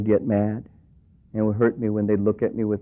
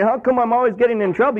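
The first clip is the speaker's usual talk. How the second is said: mock whining, pitched higher; whiny complaint; 12 semitones higher than usual. Believer grumbling at God, mock whining. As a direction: complain like a put-upon kid. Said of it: "Rather than complaining".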